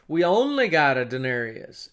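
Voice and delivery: a touch of loud, aggrieved complaint; mild mock indignation. Preacher imagining a short-changed worker, mild mock indignation. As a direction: lightly voice a worker's noisy protest. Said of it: "pitching a fit over this".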